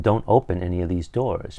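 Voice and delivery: ordinary delivery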